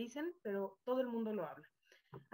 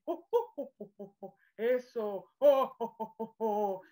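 Santa Claus laugh; 3 semitones lower, 4 dB louder, slower than usual. Shown as a demonstration. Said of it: "siendo Santa Claus".

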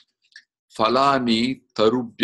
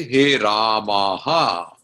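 drawn-out call; much slower than usual. Shown as a demonstration. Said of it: "you say".

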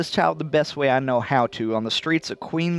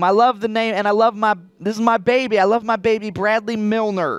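louder, gushing new mom; overjoyed mother; 4 semitones higher, 4 dB louder than usual. Acted. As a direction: gush over the newborn.

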